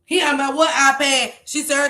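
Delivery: ordinary talk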